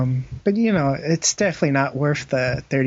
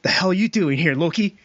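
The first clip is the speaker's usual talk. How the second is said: mock brother; 4 semitones higher than usual. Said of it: "his brother's like".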